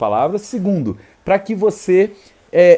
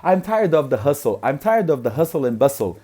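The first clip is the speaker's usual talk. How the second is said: building repetition drill; slower than usual. Shown as a demonstration. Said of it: "E aí eu falava".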